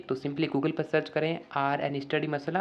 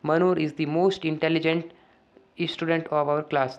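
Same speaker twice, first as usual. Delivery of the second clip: slow dictation reading; much slower than usual. Shown as a demonstration. Teacher reading the filled-in answer to the class, very slow and deliberate. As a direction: read the completed sentence very slowly, word by word. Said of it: "तो क्या आ जाएगा?".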